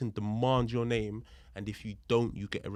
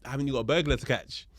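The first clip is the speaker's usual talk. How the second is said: louder, mock-incredulous retort; indignant challenge; 4 dB louder than usual. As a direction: challenge them with a pointed question. Retold indignant challenge to officer.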